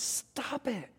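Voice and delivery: a gentle but firm halt, lightly voiced; God cutting off a restless mind, kindly. God telling the preacher to stop, firm and soft. God interrupts the worried fixer.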